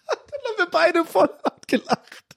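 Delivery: lachend erzählt; laughing. Real, not acted. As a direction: noch lachend, hoch. Laughing after the story.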